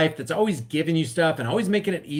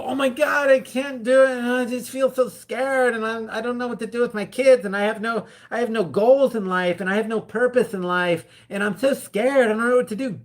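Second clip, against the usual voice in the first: mock scared wailing; 4 semitones higher than usual. Mocking a scared helpless person.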